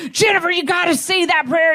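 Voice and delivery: high, loud mock yell of a cranky mother-in-law. Mother-in-law yelling at her daughter-in-law to pray. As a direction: bark it like a tough East Texas lady. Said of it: "cursing up a storm, like".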